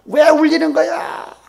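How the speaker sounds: loud, high, drawn-out yell; angry scolding. Acted. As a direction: act out an exasperated family shout. Acted household quarrel over crying.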